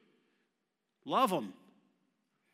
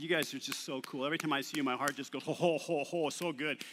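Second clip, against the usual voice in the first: mock gushing praise; 3 semitones lower, 3 dB quieter, faster than usual. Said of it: "he praised us and applauded us".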